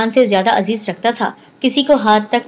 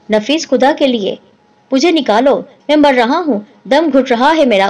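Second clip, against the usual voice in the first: panicked pleading; 3 semitones higher than usual. Acted. Man trapped in a washroom begging his friend in panic. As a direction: cry out like a scared child. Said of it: "بچوں کی طرح شور کر رہا تھا".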